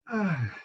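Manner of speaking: soft "ah" sinking into rest; relieved sigh. Shown as a demonstration. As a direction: let out a settled "ah".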